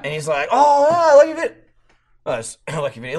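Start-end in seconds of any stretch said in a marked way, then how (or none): 0.5-1.5 high, gushing mock excitement; starstruck fanboy. Young cop recognizing the homeowner, starstruck. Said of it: "he almost fanned out". 2.3-3.2 low, softened, checked enthusiasm; composure regained. Retold or imitated. Starstruck cop pulling it together, subdued. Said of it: "pulled it together".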